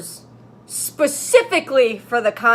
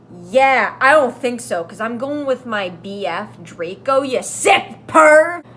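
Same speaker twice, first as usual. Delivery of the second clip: angry yell; 5 dB louder than usual. Acted. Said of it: "I yelled angrily".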